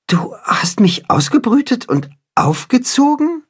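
barely believing it; astonished. A narrator's reading. Chicken learns who raised him. (fassungslos staunend)

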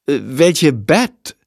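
slow, drawn-out fake puzzlement; stall, acting clueless; feigned ignorance. A narrator's reading. Jendrik pretending not to know, slow and feigned.

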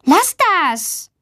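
high-pitched, mildly cross scolding. A narrator's reading. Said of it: "Luisa schimpft". (leicht schimpfend, hoch)

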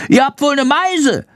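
high squeaky creature voice; squeaky bat voice. A narrator's reading. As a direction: snipe in a tiny high voice. Bat Chandor scolding swallows.

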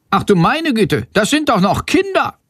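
ein Hauch entsetzter Lehrerin, deutlich höher. Acted. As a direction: aufgeregt und fassungslos protestieren. Lehrerin entsetzt über Verhaftung. (Lehrerin protestiert entsetzt bei der Polizei)

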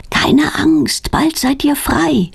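high, slowing promise; reassuring promise. A narrator's reading. Petronella to her hidden new friends, reassuring promise. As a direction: promise it in a high voice, drawing out the end. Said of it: "verspricht sie".

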